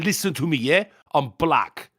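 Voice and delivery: lightly voiced fake street accent; mock the guy faking an accent; mock put-on black accent. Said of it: "putting that accent on".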